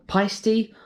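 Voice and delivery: "Peisty" in two slow syllables, ending in "-tee"; "Peisty", sounded out uncertainly; tentative pronunciation. Shown as a demonstration. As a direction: try "Peisty" as another guess. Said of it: "not really sure how to pronounce".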